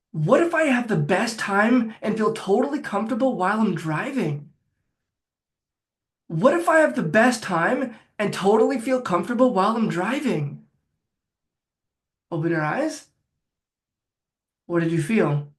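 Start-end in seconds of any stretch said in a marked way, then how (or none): 0.1-10.6 calm reassuring demo. Shown as a demonstration. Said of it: "I'll say it to start".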